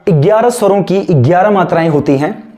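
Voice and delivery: slow, word-by-word dictation; classroom dictation. Shown as a demonstration. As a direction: dictate slowly for students taking notes. Dictates and repeats notes.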